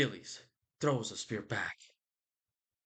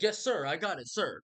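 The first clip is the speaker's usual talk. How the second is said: Mercury; 6 semitones higher than usual. Retold or imitated. Acted Mercury answering Jove's order.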